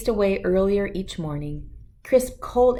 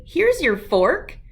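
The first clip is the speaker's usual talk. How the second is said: higher, slow calling out; shout; 8 semitones higher, 4 dB louder, slower than usual. Acted. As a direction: shout it so Dad can hear. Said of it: "I shouted".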